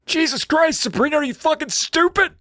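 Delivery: put-on high, strained old man voice. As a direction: croak it out like a frail old man. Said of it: "Steve's like".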